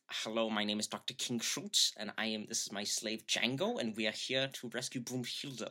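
lightly voiced, measured German gentleman; Doctor King Schultz. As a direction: introduce yourself with a light German accent. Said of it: "my actual impression".

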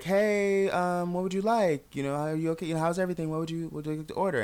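lightly camp, eager to please, lilting up; lilting cashier voice. Retold or imitated. Theater cashier greets the young customer in a high lilting voice.

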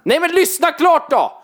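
high, slow, loud protest; exasperated protest. Real, not acted. Telling friend to let the story finish, loud.

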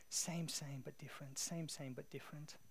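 soft, fading repetition; hushed echo. Retold or imitated. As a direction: let the phrase echo quietly, dropping away. Catchphrase echoing in his mind.

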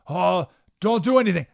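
imitating frightened advisors begging; scared advisors. Advisors begging the king to wait, mock fearful plea. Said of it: "they got emotional and said".

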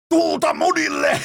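very high, stretched mock yell; screamed war cry. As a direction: scream it like a crazed coach. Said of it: "niin huutaa suomeksi". (kiljuva huuto isän äänellä)

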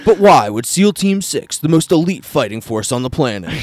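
loud dramatic trailer announcer; movie trailer voice. Shown as a demonstration. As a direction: boom it out like a trailer. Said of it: "we gotta do the movie trailer voice".

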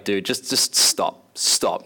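slow, exasperated plea to stop; mock fed-up audience; weary Corinthians. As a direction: groan at a bragging friend. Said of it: "the Corinthians are like".

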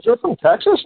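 a retold senator, amazed he's from Texas; surprised question.

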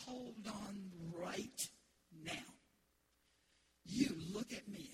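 a hint of a stern dad, slow; lightly voiced strict father laying down the law. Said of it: "when he talked like that".

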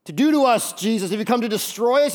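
demon voice. Acted. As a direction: plead it like a cornered demon. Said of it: "He's realizing, like".

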